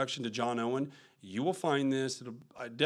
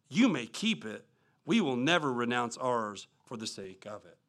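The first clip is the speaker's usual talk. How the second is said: forceful preaching read; 3 semitones higher than usual. Acted. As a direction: read it like an old-time preacher pressing his point. Reads Spurgeon quote in sermon.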